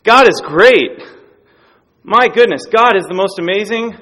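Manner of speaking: loud, high exclaiming of praise; retold joyful shout. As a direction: shout it out like an excited kid. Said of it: "he starts screaming out loud".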